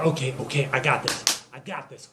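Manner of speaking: low and quiet, psyching yourself up; acted nervous resolve, under the breath; muttered self-pep-talk. Joe psyching himself up.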